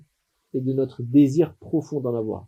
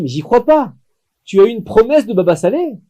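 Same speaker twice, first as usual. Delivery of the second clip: higher and louder, disbelieving joy; astonished mother; 6 semitones higher, 5 dB louder than usual. Acted. Mother amazed by her son's promise, high astonished exclaim. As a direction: gasp it out, she can't believe it.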